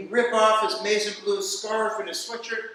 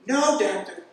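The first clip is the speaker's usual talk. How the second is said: a lightly voiced, louder patient insisting; 5 semitones higher, 4 dB louder than usual. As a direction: playfully wave off the doctor's offer.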